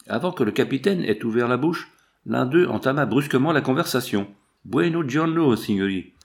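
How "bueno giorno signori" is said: put-on rude Italian accent. A narrator's reading. Shepherd mockingly greets the travellers, brash Italian accent. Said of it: "l'accent dont elle fut prononcée".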